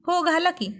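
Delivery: a light put-on annoyance, half laughing; playful mock anger. A narrator's reading. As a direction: fake a sulk with a smile. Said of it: "पुन्हा लटक्या रागात म्हणाली".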